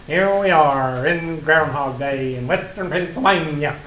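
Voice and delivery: slow movie-quote delivery, Pennsylvania drawn out; Bill Murray. Retold or imitated. Groundhog Day fan quoting the film, slow mimicked announcement. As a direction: announce it slowly, stretching the place name. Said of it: "that's the way he says it".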